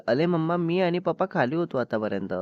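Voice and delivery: a hint of cutesy child voice; little girl's baby talk. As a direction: explain to mama in childish lisped words.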